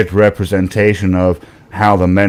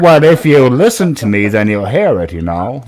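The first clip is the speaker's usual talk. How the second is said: failed Gary impression. Copying Gary's own words as a lesson, badly. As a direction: parrot Gary's line back, missing it. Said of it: "No, that's not right either".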